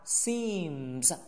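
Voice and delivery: "seems" with m then voiced z; closed-lip nasal ending. Shown as a demonstration. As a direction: hum the m in "seems" before the z. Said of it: "有个闭嘴鼻音". ("seems"闭嘴鼻音加浊音)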